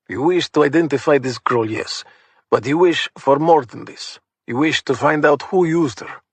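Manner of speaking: put-on knowing old Russian mobster in a Russian accent; see through his excuse, calmly in a Russian accent; Russian ex-thug. Pavlo voiced in scene.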